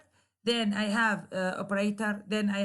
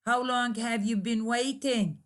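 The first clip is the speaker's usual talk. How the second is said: "How long have you been waiting?" with final fall; falling intonation. Shown as a demonstration. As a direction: drop the tone on "waiting". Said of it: "there is a falling intonation".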